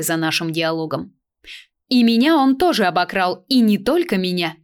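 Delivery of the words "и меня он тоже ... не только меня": raised, louder counter; sharp retort. A narrator's reading. Stranger retorts in the argument, louder. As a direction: fire back at her, louder. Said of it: "парировала незнакомка".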